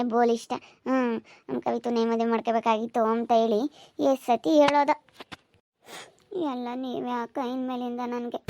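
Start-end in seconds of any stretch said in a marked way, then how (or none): 6.4-8.4 soft, choked words through tears; tearful reply. Acted. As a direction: answer quietly while holding back tears. Consoled bride answers while crying.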